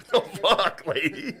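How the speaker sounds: indignant yelp. Retold or imitated. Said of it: "and I was like".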